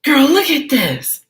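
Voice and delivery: hammed-up friend shouting at Gina; mock shout. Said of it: "shouted Ann".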